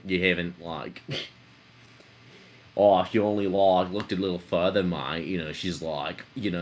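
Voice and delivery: a touch of a mocking Aussie goalie; hollow goalie taunting the boy about his sister. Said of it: "he was just like".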